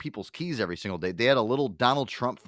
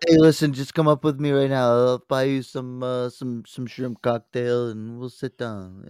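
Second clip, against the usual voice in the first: Trump impression; 5 dB louder, slower than usual. Trump voiced hitting on her.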